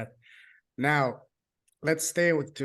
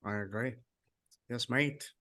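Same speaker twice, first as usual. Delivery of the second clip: mock Australian accent; 2 semitones lower, 6 dB quieter than usual. Playing along with her British accent, in mock Australian. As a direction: try a jokey Australian accent, softly. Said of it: "No, that's Australian. Sorry, that's Australian".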